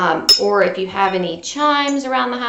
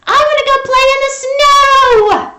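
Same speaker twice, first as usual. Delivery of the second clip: much higher, louder whiny plea; Froggy protesting; 10 dB louder than usual. A narrator's reading. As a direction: beg to go out as the frog.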